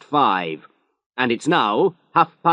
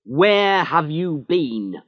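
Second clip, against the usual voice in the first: higher and louder narrated anger; angry; 9 semitones higher, 4 dB louder than usual. A narrator's reading. Inspector scolds Evans for arriving late, angry and loud. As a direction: scold him hard, slowing at the end. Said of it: "He was angry now".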